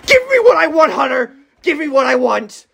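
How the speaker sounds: high, loud, strained desperate begging; junkie voice. Acted. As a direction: plead like a desperate addict. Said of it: "Acting like a junkie with a limp".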